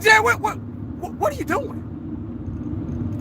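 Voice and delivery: asking Jerry in disbelief; incredulous questioning. Retold or imitated. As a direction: stretch it out in shocked disbelief. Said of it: "I'm like".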